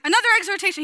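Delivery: high, loud mock proclamation; hammed-up apostle shout; wild exhortation. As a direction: announce it like a fired-up preacher. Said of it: "He gets wild".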